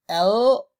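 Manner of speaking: overdone teaching demo of "L,"; super exaggerated letter. Shown as a demonstration. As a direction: belt out the "L," to show the tongue. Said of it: "I'm super exaggerating this".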